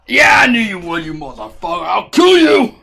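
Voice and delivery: play-angry outburst, dropping then leaping up; mock threat. Streamer threatening someone in jest, mock-angry yell.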